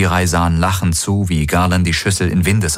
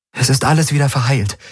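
put-on raised higher, gentle young woman; Kirai's voice; 8 semitones higher, faster than usual. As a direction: speak as Kirai, caring for the wounded.

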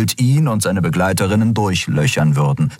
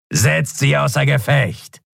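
slow, higher barked order; command; 8 semitones higher than usual. A narrator's reading. Skrier ordering his men to attack.

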